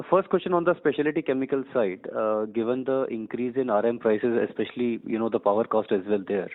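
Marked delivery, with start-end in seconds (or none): 0.1-4.4 speaking up on request; a bit louder. Real, not acted. Analyst repeating his question for management, a bit louder. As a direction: repeat the question with more projection. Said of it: "A bit louder, please".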